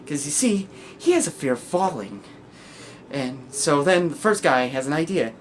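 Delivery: lightly voiced storytelling madman; Joker. Joker telling of two guys in an asylum, animated. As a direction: tell the joke with animated, swinging emphasis. Performs Joker's final joke.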